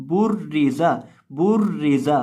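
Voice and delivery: बुर्रिजा with a firmly doubled r; careful letter demo. Shown as a demonstration. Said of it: "उसको आपने बहुत अच्छे से पढ़ना है। इसकी आवाज़ आएगी". (بُرِّزَ کی واضح، مشدد ادائیگی)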